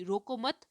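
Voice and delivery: "रोको मत" lifted at the end, then a pause; pause after मत. Shown as a demonstration. Teacher demonstrating oral form, pause after मत. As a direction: keep रोको मत together and stop after मत. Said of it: "मैंने थोड़ा सा पॉज लिया या विराम लिया".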